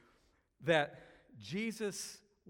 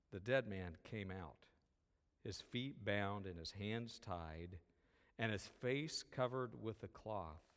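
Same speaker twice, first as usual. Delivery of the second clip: scripture reading; 3 semitones lower than usual. Acted. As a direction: read the passage gently to the congregation. Reading scripture aloud in service.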